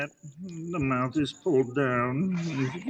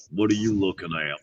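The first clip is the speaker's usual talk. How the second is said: toothy tough guy; 4 semitones lower than usual. Shown as a demonstration. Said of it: "sorta like that".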